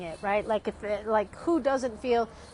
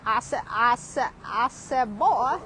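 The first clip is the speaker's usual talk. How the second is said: stuttering big cartoon rooster, punched ending; Foghorn Leghorn; 3 dB louder than usual. Recalling the big cartoon rooster, loud punched impression. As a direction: repeat it like a blustering cartoon rooster. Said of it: "how about the big rooster".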